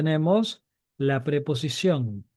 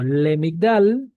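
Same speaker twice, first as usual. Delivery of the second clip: slow demonstration; much slower than usual. Shown as a demonstration. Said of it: "Si yo digo".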